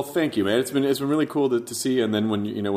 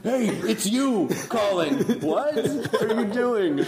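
groggy phone answer; 10 semitones higher, much slower than usual. Pretend. Acting out waking phone call.

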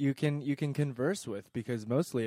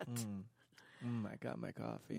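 mock Bob voice; 13 dB quieter than usual. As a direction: mumble it like Bob barely talking. Mocking Bob's voice.

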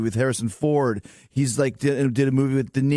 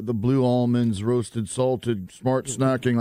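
slow, lower, dutiful reading of a snack label; bland label read; 3 semitones lower, much slower than usual. Shown as a demonstration. Guest mocks dull audiobook reading, slow package read. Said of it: "I'm just reading an almond package".

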